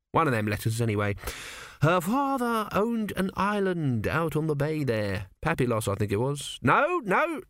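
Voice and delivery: put-on a forgetful old teller losing his thread; rambling old storyteller. Storyteller rambles to the dinner guests, forgetful and chatty. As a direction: meander like a fond old gossip who keeps forgetting names.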